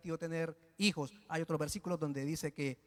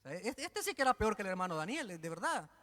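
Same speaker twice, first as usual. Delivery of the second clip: ordinary talk, nothing marked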